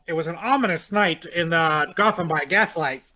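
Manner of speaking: put-on grand old ballroom announcer; old-timey announcer. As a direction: announce each ominous thing like an old newsreel. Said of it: "My, my old-timey announcer".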